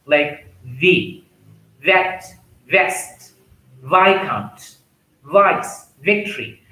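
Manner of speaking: crisp V on "viscount" and "victory"; teacher V sound. Shown as a demonstration. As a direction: model each V word slowly and clearly. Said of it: "V sound is tip of the tongue".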